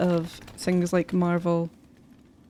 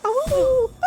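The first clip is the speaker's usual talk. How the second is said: high howling cry; wolf voice; 4 dB louder than usual. Pretend. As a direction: howl it like a wolf pup. Howls the creature name.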